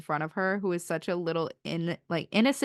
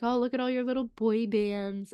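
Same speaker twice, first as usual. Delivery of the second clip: mocking jock; 4 semitones higher than usual. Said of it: "being like".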